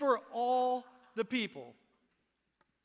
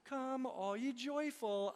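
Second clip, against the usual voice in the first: ironic quote; 4 semitones higher than usual. Shown as a demonstration. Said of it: "soiled diaper all over everything".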